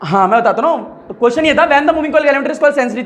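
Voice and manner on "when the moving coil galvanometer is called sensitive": slow dictation; dictating. Shown as a demonstration. Teacher dictating the question slowly to students. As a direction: spell it out slowly for notes. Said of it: "तो answer लिखो".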